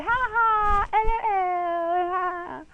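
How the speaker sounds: high, loud giggly laugh; laughing about snuggling with Callie; giddy laughter. Real, not acted. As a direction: laugh it out giddily.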